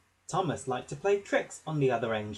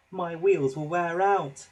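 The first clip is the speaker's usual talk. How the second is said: worried thought; 4 semitones higher, 5 dB louder than usual. A narrator's reading. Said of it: "he thought".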